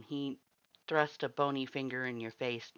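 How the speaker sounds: ordinary delivery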